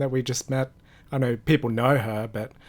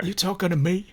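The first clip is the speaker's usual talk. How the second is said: mock New York movie tough guy; hammed-up New York "You talking to me?"; New York accent; 6 semitones higher than usual. Podcast banter, mock New York tough guy line. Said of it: "What's a New York accent?".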